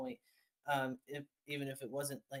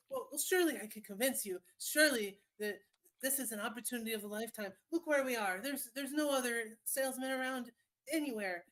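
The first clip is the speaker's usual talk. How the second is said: a pushy street vendor, pitched up; smarmy salesman voice; 6 semitones higher than usual. Acted. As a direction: sweet-talk a customer, stretching each word.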